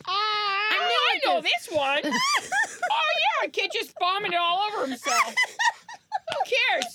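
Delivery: high, laughing through the words. Real, not acted. Guest laughs while teasing friend about her story. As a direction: talk while cracking up.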